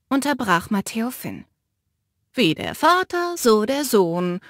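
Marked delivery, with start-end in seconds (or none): 2.3-4.4 fluting. Acted. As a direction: trill it sweetly to needle him. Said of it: "flötete Mick".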